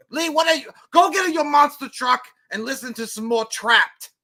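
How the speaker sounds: loud, high mocking yell; taunting shout. Real, not acted. Taunting a viewer loudly.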